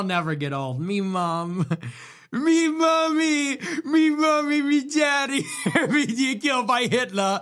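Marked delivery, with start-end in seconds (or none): 0.8-5.4 put-on high, slow hammy British accent. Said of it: "God save the Queen". 5.6-7.4 put-on British accent, cracking up; giggling through a mock Brit voice; laughing in British accent. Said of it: "God save the Queen".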